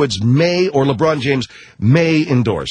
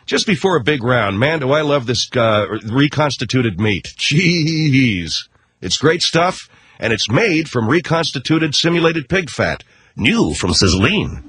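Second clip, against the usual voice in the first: cheesy mock Tiger Woods commercial. Tiger Woods pitching Sizzline bacon, cheesy ad voice. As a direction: sell the bacon like a hokey ad. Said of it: "Tiger Woods for Sizzline".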